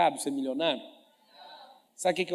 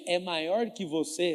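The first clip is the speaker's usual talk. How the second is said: usual speaking voice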